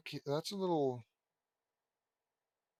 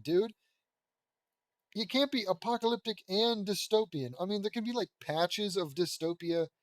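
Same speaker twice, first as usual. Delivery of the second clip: exasperated rant; 3 semitones higher than usual. Real, not acted. Reader breaks off to argue about dystopian, exasperated. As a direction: correct the word like it personally offends you.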